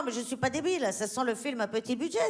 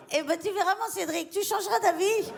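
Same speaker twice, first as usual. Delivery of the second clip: mock patronizing; 7 semitones higher than usual. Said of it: "throws the line back at Cédric".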